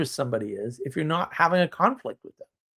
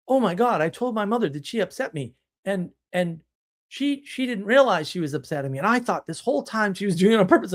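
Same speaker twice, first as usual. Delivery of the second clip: higher, breathless retelling of a discovery; mock amazed client; 5 semitones higher than usual. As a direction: imitate a stunned client, lightly. Retold women clients' surprise.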